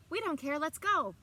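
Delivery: three ladies shouting as they run; shouted. A narrator's reading. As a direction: shout and race after him. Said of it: "the three shouted".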